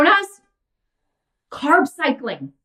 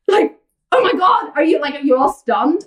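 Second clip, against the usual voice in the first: mock amazement; 4 semitones higher than usual. Teasing viewers over simple fat-loss advice, mock shouted amazement. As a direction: pretend the audience is stunned.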